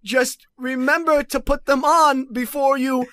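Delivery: slow rhyming storybook narration; Grinch narrator rhyme. Acted. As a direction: recite slowly like a Seuss narrator. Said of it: "narrator from How the Grinch Stole Christmas".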